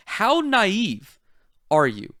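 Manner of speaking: pointed rhetorical jab, dropping at the end; facetious. Real, not acted. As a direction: needle them with mock disbelief. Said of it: "I'm being facetious here".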